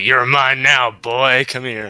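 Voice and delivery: a hint of the southern accent; southern accent imitation. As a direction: growl it like a southern hunter, southern accent. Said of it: "in that accent that you do".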